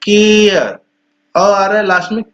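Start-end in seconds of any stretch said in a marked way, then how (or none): 0.0-0.8 केयर said slowly as kay-er, the r barely sounded; teacher modelling केयर clearly; careful pronunciation. Shown as a demonstration. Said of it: "तो जैसे कि ये है सी".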